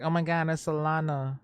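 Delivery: mock fangirl freak-out. Coworkers spotting a celebrity at the museum, imitated freak-out. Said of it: "my coworkers at the time were freaking out".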